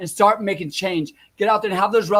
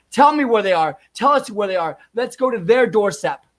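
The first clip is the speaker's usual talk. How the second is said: angry demand; 3 semitones higher, 4 dB louder than usual. Real, not acted. Vlogger demands his viewers expose poll workers, angry. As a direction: bark it at the audience like an order.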